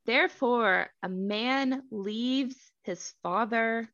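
measured, deliberate Bible narration; scripture reading. A narrator's reading. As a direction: read the verse out with spaced phrases.

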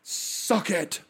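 Hulkster impression.

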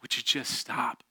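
retold crying mother, understated; hushed, mildly tearful imitation of mom; tearful plea. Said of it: "crying and being like".

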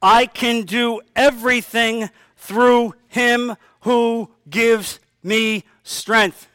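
slow, solemn reading of the verse; slow scripture reading. Shown as a demonstration. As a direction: read it slowly, letting each word land. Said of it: "Philippians chapter four, verse thirteen".

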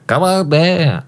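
pinched-nose commercial announcer; nasal radio ad voice. Pretend. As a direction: hold your nose and pitch the ad. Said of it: "I'm, like, doing the voice and holding my nose".

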